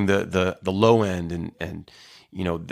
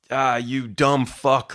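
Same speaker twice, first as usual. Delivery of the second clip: slow, higher mock insult; aggressive insult; 4 semitones higher, much slower than usual. Online stranger name-calling in an argument, mildly mock aggressive. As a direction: draw out a retold insult. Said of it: "really aggressive and just weird".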